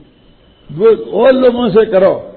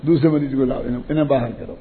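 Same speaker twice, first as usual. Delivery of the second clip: lightly voiced dismissive doctor, low and trailing softer; doctor کا مختصر انکار; 6 semitones lower, 4 dB quieter than usual. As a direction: send the patient away in a low, quiet voice. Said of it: "تو وہ کیا کہے گا". (دھیمی، نیچی آواز میں ڈاکٹر کا ٹالنا)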